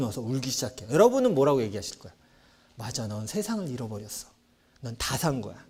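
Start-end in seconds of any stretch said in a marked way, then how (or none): 2.7-5.6 mock sarcastic parent. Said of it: "뭐 이렇게 얘기하세요?".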